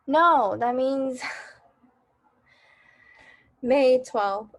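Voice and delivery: flustered, laughing correction; slow, loud, laughing at own mistake. Real, not acted.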